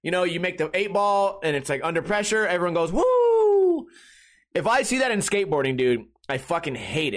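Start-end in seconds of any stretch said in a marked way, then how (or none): 2.9-3.9 high, loud, long "woo"; imitated victory yell, held high; celebratory whoop. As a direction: whoop like a crowd after a winning shot. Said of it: "a lot of laughing and yelling".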